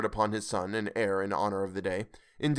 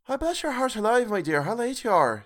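Mrs Cratchit voiced; 9 semitones higher than usual. A narrator's reading. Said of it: "said Missus Cratchit".

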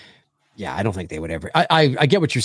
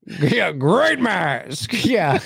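laughing; 7 semitones higher, much slower than usual. Pretend. Mocking Pacino line, laughing.

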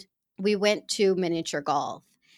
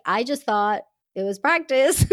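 laughing; 6 semitones higher, 7 dB louder than usual. Real, not acted. Laughing as she recalls thinking it was practice.

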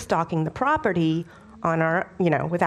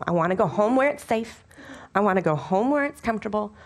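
ordinary talk

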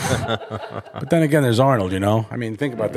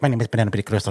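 mock Spanish accent; 2 semitones lower, faster than usual. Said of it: "Penelope's like".

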